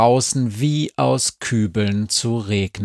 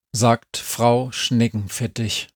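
plain reading voice

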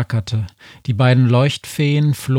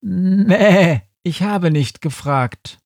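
higher, louder bleat, strange sheep voice, falling on „habe“; defiant sheep; 8 semitones higher, 3 dB louder, slower than usual. A narrator's reading. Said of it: "sagte das Schaf". (trotziges Schaf mit Mäh)

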